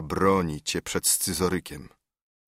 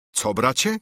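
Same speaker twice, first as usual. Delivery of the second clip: startled cry; 4 semitones higher than usual. Acted. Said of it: "krzyknął sędzia".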